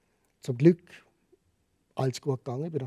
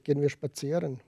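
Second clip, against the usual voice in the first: quoted in Standard German. Retold or imitated. Asking Ukrainian girlfriend for a walk, Standard German. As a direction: switch from dialect into Standard German. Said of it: "Wir reden Hochdeutsch".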